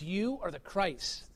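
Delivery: soft, slow and reverent; quiet slow confession. Retold or imitated. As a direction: let it land gently, almost hushed. Peter's confession quoted.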